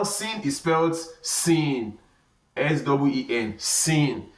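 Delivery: "sin" with a plain clear s; long, clear "sin"; clear easy sin. Shown as a demonstration. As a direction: say "sin" with a light s and a long vowel. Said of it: "very easy to pronounce".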